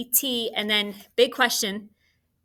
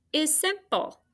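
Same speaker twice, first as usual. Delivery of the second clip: playful high; 8 semitones higher than usual. Acted. Playful pun on simple.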